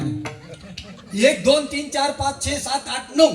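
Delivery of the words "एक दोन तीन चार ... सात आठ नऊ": higher, counting each head one by one; a fool counting his friends in a higher voice; anxious counting. Acted. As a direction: count the group, getting worried. Fool recounts, missing himself.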